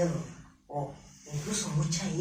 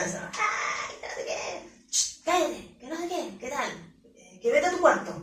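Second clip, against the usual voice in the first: mock scolding parent; 5 semitones higher than usual. Mother scolding her child to go to his room, mock exasperated shout. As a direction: imitate a fed-up parent scolding.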